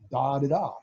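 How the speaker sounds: dah da dah spoken like key beeps, short middle da; voiced Morse. Shown as a demonstration. Explaining the keyer's buffer, mock Morse beeps. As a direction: sound out dah da dah as code. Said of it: "insert that dit between the two dahs".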